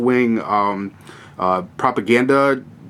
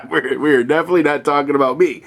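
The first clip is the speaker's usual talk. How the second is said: chuckling through the repeat, a bit faster; laughing; faster than usual. Real, not acted. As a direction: laugh it off while stressing definitely. Repeats joke while laughing.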